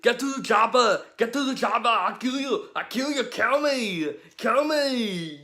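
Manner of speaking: loud, high, raging action hero; berserk rage. Pretend. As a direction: yell it like a movie hero. Quoting Predator movie lines.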